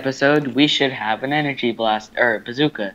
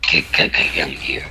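stuttering dubstep glitch; 9 semitones lower than usual. Retold or imitated.

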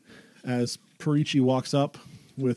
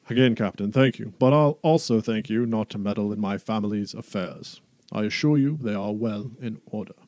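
booming Duke voice; 5 dB louder than usual. Acted. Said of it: "big booming voice".

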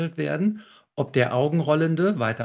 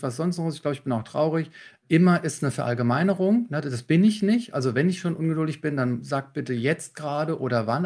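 calm GFK reply; 2 semitones higher than usual. Shown as a demonstration. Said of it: "mit der G F K die vier Schritte wieder".

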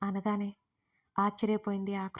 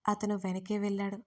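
ordinary delivery

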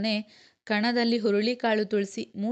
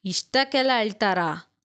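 a louder, astonished question; surprised question; 4 dB louder than usual. Acted. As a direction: ask it amazed, as if it's silly to cry. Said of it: "ಆಶ್ಚರ್ಯದಲ್ಲಿ ಕೇಳಿದ್ಲು".

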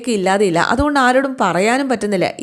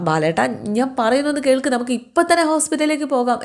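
understated cry for help, pitched up; mild retold wail; 5 semitones higher than usual. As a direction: voice a worried woman's plea, lightly acted. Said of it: "എന്ന് കാർക്കൊണ്ട് ഗോമതി പറഞ്ഞപ്പോൾ".

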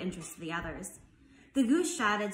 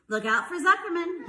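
raised, loud warning yell; 7 semitones higher, 6 dB louder than usual. A narrator's reading. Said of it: "yelled the gardener".

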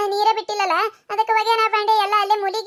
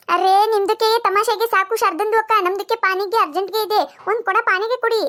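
put-on Dakhni-accented Kannada. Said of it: "ಅದ್ರ ಭಾಷೆ ನಮಗ್ ಅರ್ಥ ಆಗುದಿಲ್ಲ".

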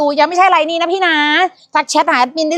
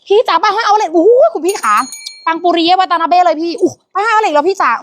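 higher, eager sales patter; excited hype; 5 semitones higher than usual. Real, not acted. Host hypes the item to viewers, higher. Hyping sale.

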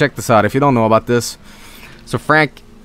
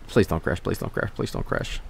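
whispered plea; 7 semitones lower, 12 dB quieter than usual. Real, not acted. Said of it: "begging game not crash".

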